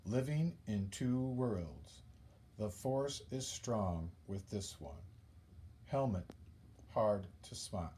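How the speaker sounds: soft, measured recital with pauses between phrases; poem reading. Shown as a demonstration. Teacher reads own Darth Vader haiku to class, soft measured recital. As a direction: read it quietly, letting each line settle. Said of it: "Here's my poem about Darth".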